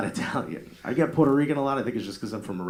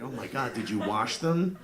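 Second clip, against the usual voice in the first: slow horrified; 2 semitones higher than usual. Retold or imitated. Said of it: "I'm like".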